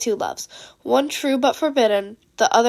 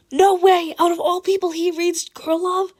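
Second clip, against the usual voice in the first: much higher, shocked, stretched-out disbelief; hushed screech; 6 semitones higher, 3 dB louder than usual. Acted. Monoma reacting to the news about Ida, a hushed high screech. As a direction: screech it but keep it hushed. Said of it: "screeched Monoma in a quieted tone".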